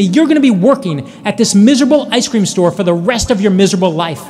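half-screamed insult, played for the story; retold scream. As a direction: imitate a ranting customer without fully screaming. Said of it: "And she screams at me".

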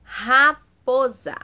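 "Raposa" slow and loud, R drawn out; strong prolonged R. Shown as a demonstration. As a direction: stretch out the R in "Raposa". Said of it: "Teve um som forte, mais prolongado". ("Raposa" devagar e alto, R forte e prolongado)

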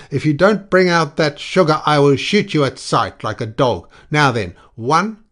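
loud, high, furious threat; howling. A narrator's reading. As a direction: howl threats through a door, counting him down.

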